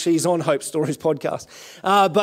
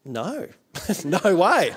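slow no, broken by laughter; laughing it off; much slower than usual. Retold or imitated. Recalling refusing the pastors, laughing through no. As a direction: laugh while turning the offer down.

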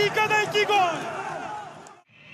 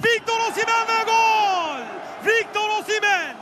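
screaming football commentator. Real, not acted. Goal call, commentator.

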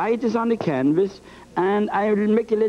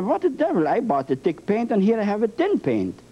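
mock surprise; 3 semitones higher than usual. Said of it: "you wonder".

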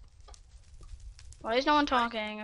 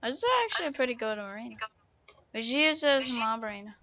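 slurred, rushed speech; words running together; slurring words; much faster than usual. Real, not acted. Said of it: "slurring all my words".

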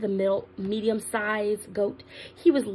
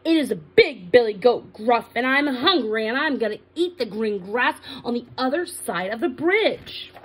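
a hint of a big, forceful goat; big billy goat voice; 4 dB louder than usual. Big goat answers the troll, sturdy voice. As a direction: speak up firmly, loud on the opening. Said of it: "answered in his big billy goat voice".

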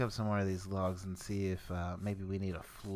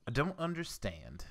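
southern accent; 5 semitones higher than usual. Real, not acted. Confused gamer puzzling over crafting, slipping into a southern accent. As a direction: let a southern accent slip out. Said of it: "this southern accent coming from me".

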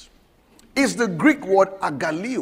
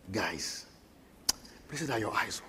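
much softer, lower confiding voice; said privately; 10 semitones lower, 17 dB quieter than usual. Retold or imitated. Jesus turning privately to his disciples, soft and low. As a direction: lean in and tell them softly. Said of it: "and said privately".

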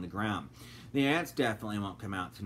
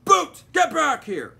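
loud, high shout after the dog; yelling; 13 dB louder, slower than usual. A narrator's reading. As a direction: call the dog back at full volume. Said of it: "his human yelled".

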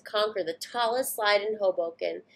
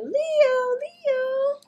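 put-on much higher boy calling out; calling a name; 4 dB louder than usual. Boy calling his puppy, higher call. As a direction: call for the lost dog. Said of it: "the boy's going".

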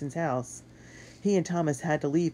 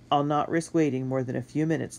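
warning; 3 dB louder than usual. Acted. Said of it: "the driver warned".

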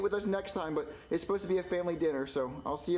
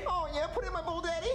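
breathy suggestive purr, pitched up; 8 semitones higher than usual. Acted. Junior at dinner, asking Daddy, suggestive and flirty. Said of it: "Whoa, why did you say it like that?".

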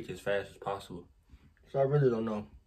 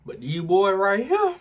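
loud exclaim; 9 semitones higher, 12 dB louder than usual. Real, not acted. Spicy noodle challenge reaction.

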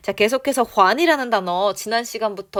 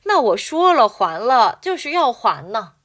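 very slow, careful reading of the line; slow model reading; 2 semitones higher, 4 dB louder, much slower than usual. Shown as a demonstration. Teacher reading the line slowly for students to repeat. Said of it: "갑니다. 시작".

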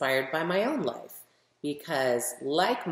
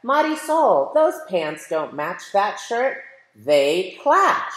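a light big-brother nag, name called higher; lightly voiced brother scolding her clothes; brother teasing; 5 semitones higher, 10 dB louder, slower than usual. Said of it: "My brother says".

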